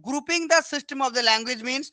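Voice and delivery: very slow, word by word dictation; slow dictating teacher. Shown as a demonstration. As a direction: spell it out slowly for the students to copy. Teacher reading definition aloud.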